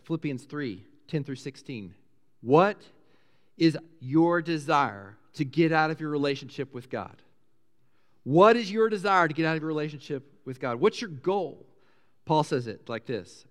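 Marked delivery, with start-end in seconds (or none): 2.4-7.2 deliberate questioning. Shown as a demonstration. Poses question, then repeats it. 8.2-11.7 brisker repeated question. Shown as a demonstration. Same question repeated more quickly.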